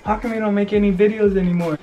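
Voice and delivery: high mock fan voice; lightly voiced curious fan; quoting fans. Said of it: "people are always asking me like".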